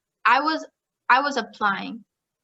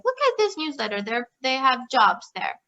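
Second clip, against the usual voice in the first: encouraging dad; 2 semitones higher than usual. Retold or imitated. Dad trying to encourage her with a newsletter, lightly imitated encouragement. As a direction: imitate a dad nudging gently, pitch lifted. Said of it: "my dad trying to encourage me".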